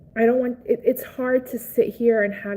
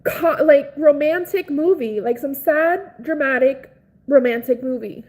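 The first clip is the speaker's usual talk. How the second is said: loud, high, drawn-out tearful wail; crying; 6 semitones higher, 6 dB louder, slower than usual. Real, not acted. Streamer reacting to a stranger's girlfriend dying, crying. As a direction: wail it out slowly, overcome and loud. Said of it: "But I'm, like, crying".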